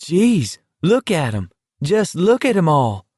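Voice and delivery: amazed yell. A narrator's reading. Walker gawping at the roadside crowd, amazed yell. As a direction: call out in amazement at the sight. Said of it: "Baker yelled".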